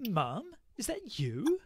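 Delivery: breathless whispered question; stunned whisper. Acted. Kathy whispering to the mother she recognises. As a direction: whisper it in disbelief. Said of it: "and be like".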